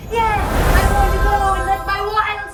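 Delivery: loud, eager wild declaration; a touch of reckless flapper; Zelda Fitzgerald. Acted. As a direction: let the wild side burst out. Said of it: "I am Zelda Fitzgerald".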